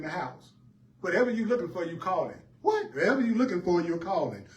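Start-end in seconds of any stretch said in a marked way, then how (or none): 2.6-4.5 mock bafflement. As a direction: yelp it like you can't believe it. Preacher's mock-baffled echo.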